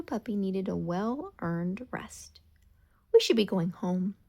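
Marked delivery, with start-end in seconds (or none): 3.1-4.2 breathy sighed words; sighing. Acted. Ollie tells Milo it's time to go, on a sigh. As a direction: let it out on a tired sigh. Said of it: "Ollie sighed".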